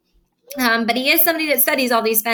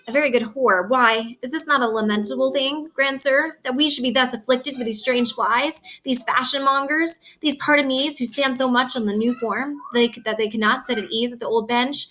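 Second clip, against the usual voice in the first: reading Shakespeare aloud, a little raised and lively; dramatic reading; 3 semitones higher than usual. Acted. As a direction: perform the old verse for the class. Teacher reads Shakespeare aloud.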